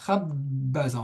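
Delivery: doubled b held in "Khabbaza"; b redoublé. Shown as a demonstration. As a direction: say both b's in "Khabbaza", lingering on them. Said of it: "On voit qu'il y a deux B". (« Khabbaza » en appuyant le double b)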